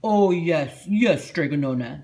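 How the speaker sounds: quick eager agreement; Big Anthony voice. A narrator's reading. Big Anthony promises Strega Nona, eager and agreeable. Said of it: "said Big Anthony".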